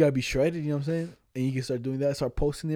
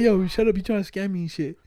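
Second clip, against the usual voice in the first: higher-pitched mock-angry comeback; retold indignant retort; 5 semitones higher than usual. Telling co-host how he told off the scammer, indignant.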